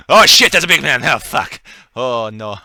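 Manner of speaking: loud panicked French exclamations; french chef. Acted. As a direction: yelp in alarm with French flair. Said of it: "And he's like".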